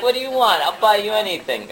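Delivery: a hint of an excited, generous dad; eager proud dad. Dad offering his young son any reward, excitedly.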